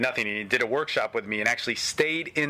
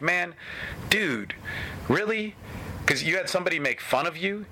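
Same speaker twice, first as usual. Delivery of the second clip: incredulous retort; 5 semitones higher than usual. Retold or imitated. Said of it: "And I'm like".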